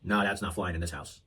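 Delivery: a lightly voiced stern father; old school dad. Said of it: "the old school reaction of being like".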